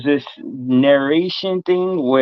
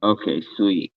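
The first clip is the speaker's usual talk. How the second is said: muffled, as if under water; underwater voice; 5 semitones lower, 5 dB quieter than usual. Real, not acted. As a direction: sound submerged and bubbly. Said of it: "you still sound like you're underwater".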